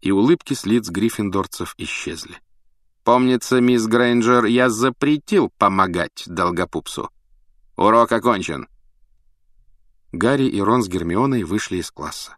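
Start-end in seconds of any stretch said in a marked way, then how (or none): 3.0-8.7 cold teacher. Acted. Snape rebukes Hermione.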